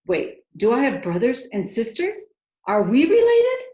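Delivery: rising, eager questions that end loud and high; breathless excited princess; tumbling questions. A narrator's reading. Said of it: "The questions came tumbling out of her mouth".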